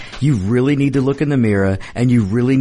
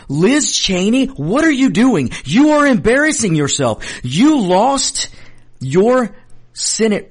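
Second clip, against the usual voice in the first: indignant rant; 8 semitones higher than usual. Real, not acted. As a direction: tell her off, pitch up and pushing. Host berating Liz Cheney directly.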